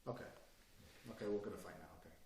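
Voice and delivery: low, very soft resignation; sudden calm. Acted. Man switching tactics before a fight, suddenly calm. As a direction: drop to a quiet, unbothered menace. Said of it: "I'll change my body language completely".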